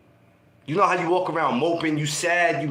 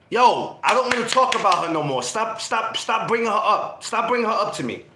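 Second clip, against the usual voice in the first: mildly annoyed; 3 semitones higher than usual. Retold or imitated. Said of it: "Now you getting mad with your homies".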